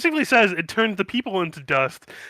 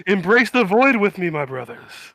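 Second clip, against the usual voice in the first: louder ecstatic cult call; cultist voice; 4 semitones higher, 4 dB louder than usual. Acted. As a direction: invite them into the void. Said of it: "He's like".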